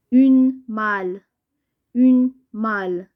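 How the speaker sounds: slow, firmly projected teacher reading; slow dictation. Shown as a demonstration. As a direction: sound it out slowly for the class. Teacher sounds out word for pupils. (قراءة بطيئة وواضحة للتلاميذ)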